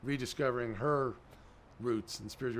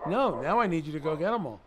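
laughing punchline; 2 semitones higher, 7 dB louder than usual. Retold or imitated. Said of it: "And Rabbi says".

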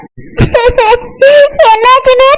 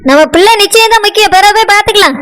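lower-voiced, doubting wife; a wife who is unimpressed, lower voice; dismissive wife; 3 semitones lower than usual. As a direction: brush the news off, lower. Wife figure refusing to go.

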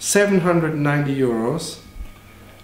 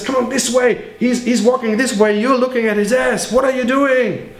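lightly voiced bear, a bit higher; a hint of a pushy cartoon bear; bear character; 6 semitones higher than usual. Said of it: "And the bear who says".

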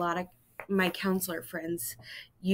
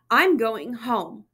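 upset; 5 dB louder, slower than usual. Acted. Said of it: "Simon cried".

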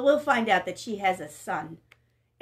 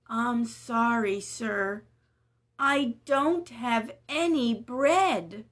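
sad widow; slower than usual. Acted. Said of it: "she sighed".

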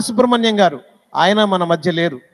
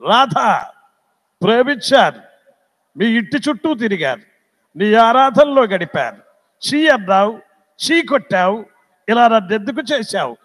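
lightly voiced film-hero lament, phrase by phrase; a hint of a reproachful screen lover, pausing between phrases; Nageswara Rao. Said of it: "నాగేశ్వరరావు గారు ఎలా మాట్లాడతారు". (నాగేశ్వరరావు గారి మాటతీరును లీలగా అనుకరిస్తూ)

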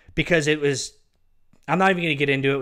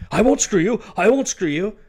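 mock reassurance; 6 semitones higher, 4 dB louder than usual. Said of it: "I said".

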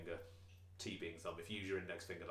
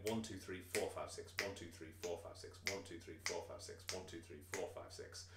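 counting the beat; 2 semitones lower, 6 dB quieter than usual. Shown as a demonstration. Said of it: "in one bar, we get".

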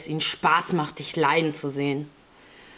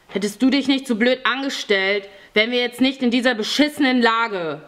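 higher-pitched, bitter blaming; angry reproach; 6 semitones higher than usual. A narrator's reading. Fjodor blames the boy for their mess, angry reproach. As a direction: lash out at the one to blame. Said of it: "fuhr ihn Fjodor an".

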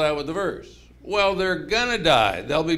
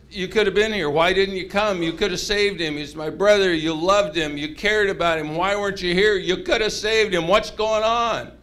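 mildly nagging, pressing questions; lightly acted reproach, building toward the end; on his case; 2 semitones higher than usual. Martha taking Jesus to task, mildly reproachful. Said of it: "she's on his case a little bit".

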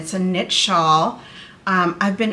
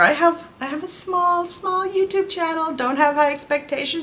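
modest retold remark; 9 semitones higher than usual. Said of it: "And then I even told her".

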